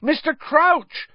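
high, slow, loud shout; frantic yell at a teacher. Acted. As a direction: shout the name in frustration. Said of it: "Harry shouted".

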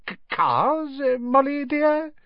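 high, nervous, faltering voice; guilty stammer. Acted. Husband to his angry wife, high guilty stammer. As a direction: stammer it out, caught red-handed. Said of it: "He stared guiltily at his wife".

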